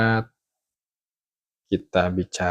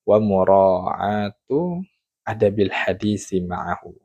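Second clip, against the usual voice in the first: quoted Arabic saying; 4 dB louder, slower than usual. Shown as a demonstration. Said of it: "adalah kata beliau".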